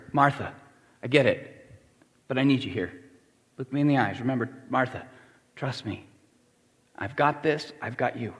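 softening, unhurried reassurance; steady a doubting friend, quietly; gentle reassurance. Acted. Jesus refocusing Martha at the tomb, gentle reassurance.

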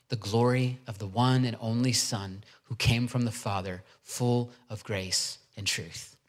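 measured, deliberate Bible reading; declaimed verse, phrase by phrase; scripture reading. Real, not acted. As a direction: read the passage aloud with weighted key words. Reads Bible passage aloud.

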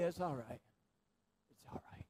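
put-on hushed, soothing whisper to a baby; soft whisper. Shown as a demonstration. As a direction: breathe it softly to calm a crying child. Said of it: "Your voice tone is nothing but a whisper".

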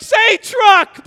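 high loud plea to say truck properly; frantic dad correcting; urgent correction. Retold or imitated. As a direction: yell truck clearly to fix the word. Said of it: "And I'm like".

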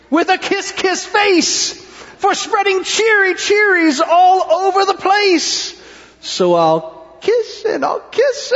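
dawning delight building to high glee; joyful kiss-kiss fish. Acted. Fish discovers joy.

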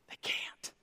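breathy whispered aside; hushed whisper. Real, not acted. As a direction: drop to a whisper for effect.

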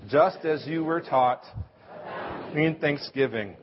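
slow, measured recitation with the congregation; group recitation. Shown as a demonstration. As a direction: recite each phrase slowly, word by word. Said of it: "One more time".

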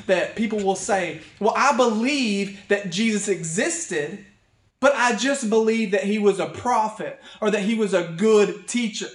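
forceful sermon delivery with leaning stresses; emphatic preaching. Acted. Pastor rebuts those who call Jesus only a teacher, emphatic preaching. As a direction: preach it hard, voicing the quotes emphatically. Preaches against a common claim.

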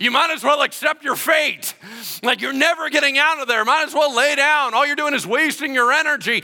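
loud, high jeering shout; yelling down. Retold or imitated. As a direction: bellow it down to crush his hope. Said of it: "yelling down at him".

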